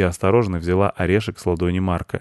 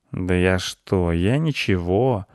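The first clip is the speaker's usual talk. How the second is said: feigned innocence; slower than usual. Acted. Caught cat denies creeping, slow and innocent. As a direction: drag it out all innocent.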